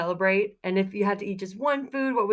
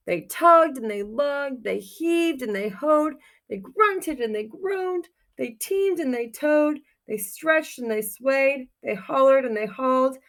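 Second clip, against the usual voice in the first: building effort; 5 semitones higher, 4 dB louder than usual. Acted. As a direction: heave each pair of words out like pulling hard. Effortful pulling refrain read aloud.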